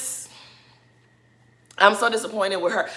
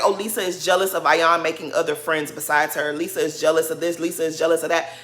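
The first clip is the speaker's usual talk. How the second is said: lower, monotone mocking recital; mock complaint; 4 semitones lower than usual. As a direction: reel off their complaints dismissively in a low monotone. Retelling others' complaints about Lisa.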